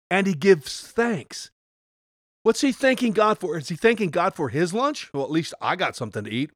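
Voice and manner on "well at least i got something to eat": lower, softer, quick shrugging aside; mock shrug. Pastor mocking a grateful-for-lunch attitude, shrugging. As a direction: toss it off like a half-hearted consolation.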